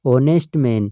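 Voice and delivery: ऑनेस्ट man whispered, starting on the O sound; whispered example. Shown as a demonstration. Teacher whispers the example word to the students. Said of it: "ऑनेस्ट ओ की ध्वनि आ रही है".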